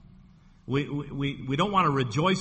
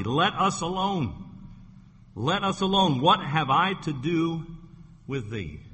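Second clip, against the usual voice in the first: possessed man crying out; 3 semitones higher than usual. Acted. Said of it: "they cried out and said".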